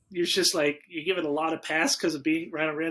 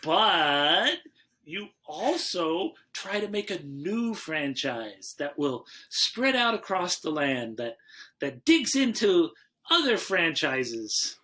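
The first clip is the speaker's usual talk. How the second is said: dramatic host intro; slower than usual. Pretend.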